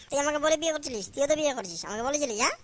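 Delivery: angry shouting. Acted. Son shouting back at father.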